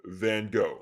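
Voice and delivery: Van Gogh the American way, Gogh rhyming with go; American pronunciation. Acted. Teacher sticking with what's accepted in America, American Van Gogh. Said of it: "stick with what's generally accepted here in America".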